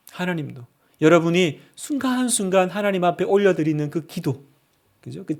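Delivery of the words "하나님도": 하나님도 repeated much softer and lower, falling; soft echo. Real, not acted. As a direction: let 하나님도 fall away softly.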